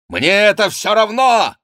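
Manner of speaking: high, loud impatient outburst; angry exclamation. A narrator's reading. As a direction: cry it out hotly. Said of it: "воскликнул граф". (громкое гневное восклицание)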